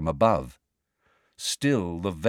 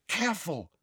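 hushed, higher-pitched caution; soft, high stage whisper; whispered warning; 9 semitones higher, 8 dB quieter than usual. A narrator's reading. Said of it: "whispered Hermione".

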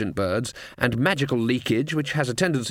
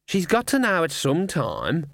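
raspy cawing crow; 5 semitones higher than usual. Acted. Raven speaking.

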